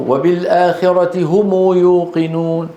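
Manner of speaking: هم lengthened to "humuu" before يوقنون; measured chant, "humuu yuuqinuun"; recitation variant. Shown as a demonstration. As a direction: recite with a linking long uu after هم. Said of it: "وإن قرئ أمامه".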